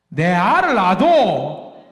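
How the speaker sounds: slow, drawn-out Gyeongsang dialect line. Shown as a demonstration. Preacher recalls a comedy sketch's Gyeongsang line, slow and drawn out. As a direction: savour each syllable of the Gyeongsang phrase. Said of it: "경상도 말로 뭐라고 하는지".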